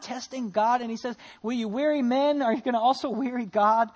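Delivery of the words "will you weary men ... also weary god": louder, exasperated rebuke; acted frustration. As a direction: scold a stubborn king, mildly exasperated. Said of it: "Isaiah gets kind of frustrated".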